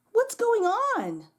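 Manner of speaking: put-on high, slow puzzled child voice; surprised child. Eli finds the neighbors arriving, puzzled. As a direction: draw out the question, bewildered.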